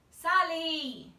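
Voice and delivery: loud call up into the tree. A narrator's reading. Mother calling up into the tree, loud call. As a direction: call her down from the branches. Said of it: "she called".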